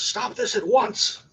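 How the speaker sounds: high, loud, drawn-out command; yelling. Acted. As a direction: yell it as a guard ordering a halt. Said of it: "one of them just yells".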